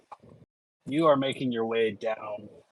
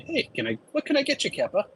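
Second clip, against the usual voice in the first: bartender voice; 9 semitones higher, much faster than usual. Acted. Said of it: "and say".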